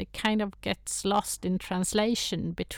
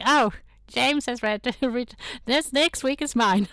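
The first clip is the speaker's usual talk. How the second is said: giggling through the quoted thought, pitched up; laughing; 5 semitones higher, 4 dB louder than usual. Retold or imitated. Guest recalling she posts after James, laughing.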